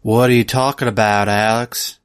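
put-on easy, convincing Southern accent. Teasing Alex about the film's accent, in a Southern accent. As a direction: play it as a natural-sounding Southerner. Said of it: "your accent's too good for this".

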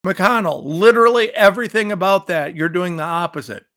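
loud, sharp call-out; angry outburst. Real, not acted. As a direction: lash out at him, fired up. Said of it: "I'm mad about this".

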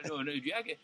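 put-on old Southern ballplayer voice; Buck O'Neil. Comic imitating a ballplayer reminiscing about a teammate, Southern old-timer voice. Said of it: "you can't portray Buck O'Neil talking like Buck O'Neil".

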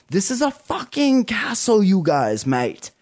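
badly faked Australian or British accent; mock Australian accent. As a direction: put on a hammy Australian mate accent. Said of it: "doing an Australian accent".

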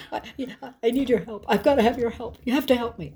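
high-pitched imitation of a distraught friend; acted-out desperate plea; hysterical pleading. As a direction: plead tearfully, as if begging on the phone. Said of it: "she's hysterical on the other end of the line".

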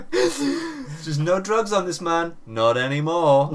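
slow, loud, still laughing through it. Real, not acted. Storyteller still laughing at his own dog joke, slow and loud. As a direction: let the giggles carry the words. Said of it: "laughing after the dog bit".

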